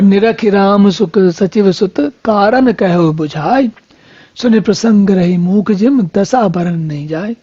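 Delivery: slow, drawn-out scripture verse; verse recitation. Acted. Preacher reciting Ram's query to the congregation, measured verse recitation. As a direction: recite the couplet with stretched line endings.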